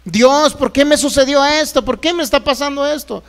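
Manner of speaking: imitated aggrieved prayer; complaining to God. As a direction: plead upward, demanding to know why. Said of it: "Muchos se están quejando contra Dios".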